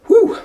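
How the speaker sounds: relieved whew. Real, not acted. Big exhale after demo.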